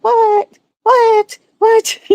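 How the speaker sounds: stunned at what she's hearing; shocked disbelief. Retold or imitated. Shocked reaction to the debate.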